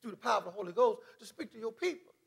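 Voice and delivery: soft, earnest petition; retold quiet prayer. Preacher retells his prayer to speak, in a soft voice. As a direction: ask the Lord softly. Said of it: "I prayed and asked him".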